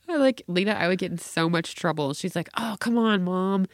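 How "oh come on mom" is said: higher, wheedling daughter; pleading kid. Retold or imitated. Daughter pleading with mom, pitched up. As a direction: imitate a child nagging for permission.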